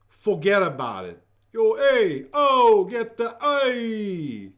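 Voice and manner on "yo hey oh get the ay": loud, high Jersey wiseguy yelling; New Jersey accent. Retold or imitated. Host imitating a New Jersey friend, loud Jersey accent. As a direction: shout like a Jersey guy in traffic. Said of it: "my friend from New Jersey".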